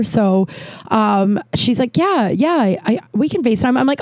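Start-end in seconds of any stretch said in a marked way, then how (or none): 2.0-3.8 high, hesitant yeah yeah; mock the caller going along uneasily; hesitant agreeing caller. Dawn Marie reluctantly agreeing to FaceTime, high and hesitant.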